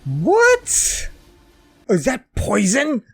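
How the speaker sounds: shocked. Real, not acted. Shocked by the poison.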